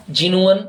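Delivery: Genuine said slowly as "jen-yu-in"; slow, careful Genuine, jen-yu-in; proper pronunciation. Shown as a demonstration. Teacher modelling the proper word for the class: slow Genuine. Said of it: "is the proper pronunciation".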